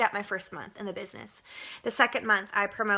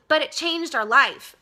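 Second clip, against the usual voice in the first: emotional; 4 semitones higher, 5 dB louder than usual. Real, not acted. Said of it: "I'm getting emotional".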